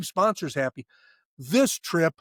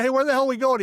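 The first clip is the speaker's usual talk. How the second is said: high, loud, incredulous question; acting out a baffled call to his friend; retold demand; 10 semitones higher, 5 dB louder, faster than usual. Phones friend back demanding the destination.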